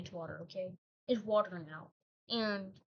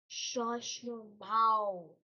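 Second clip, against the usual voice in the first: script writer's hush; much slower than usual. Acted. Script writer voice hushing him.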